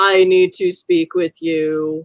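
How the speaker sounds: very robotic, mechanical, android-style machine voice. The narrator voices a trench-coated figure asking the other to talk: very robotic voice. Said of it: "in a very robotic voice".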